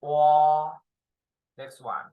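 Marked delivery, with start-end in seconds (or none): 0.0-0.7 same clear model again; repeat demo. Shown as a demonstration. Teacher repeats the vowel for the class, clearly. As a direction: give the class the sound once more. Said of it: "Again, please".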